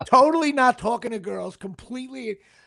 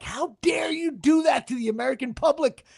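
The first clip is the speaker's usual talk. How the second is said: raised, higher mock yell of outrage; imitating a scream; 5 semitones higher than usual. Retelling how Artie yelled at him after the show, mock outraged yell. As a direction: play up his friend's outrage as a half-joking yell. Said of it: "And Artie screamed at me".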